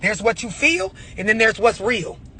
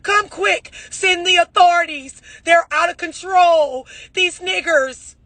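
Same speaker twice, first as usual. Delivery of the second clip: mock panicked Karen; 6 semitones higher, slower than usual. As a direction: ham up a frantic Karen phoning the authorities. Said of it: "You a goddamn Karen".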